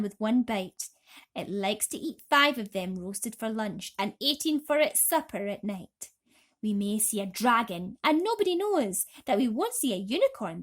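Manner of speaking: excited, rhythmic poem recital; centipede's rollicking poem. Acted. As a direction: bounce through the verse with glee. Centipede chants his poem.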